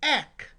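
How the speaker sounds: ek said crisply, short e then hard k; teacher modelling ek; sounding out ek. Shown as a demonstration. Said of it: "This is".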